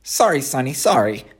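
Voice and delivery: lightly voiced fussy goose; a hint of a busy mother goose; honking bossy goose. The goose answers.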